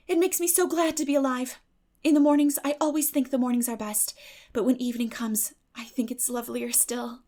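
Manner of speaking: lightly voiced eager girl; lightly voiced Anne. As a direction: gush lightly over the evening. Anne's voice held.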